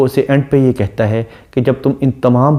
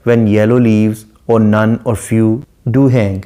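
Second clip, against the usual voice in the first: slow poem recital; much slower than usual. Shown as a demonstration. Teacher reads Shakespeare line to students, very slow recital. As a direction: read the line very slowly, weighing each word. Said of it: "line number two में बयान करता है".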